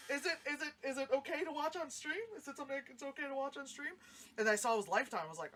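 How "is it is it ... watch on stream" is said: higher, tentative questioning; retold nervous double-checking; mock hesitant asking. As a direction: ask permission sheepishly in a raised voice. Retelling her hesitant asking.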